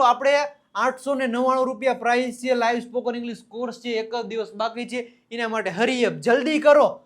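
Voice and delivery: quick, lightly acted sales patter; mock advert pitch. Teacher mimics an advert for a spoken English course, light sales pitch. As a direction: rattle off the offer like an advert. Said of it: "ઘણી બધી advertise તમે જોતા હશો".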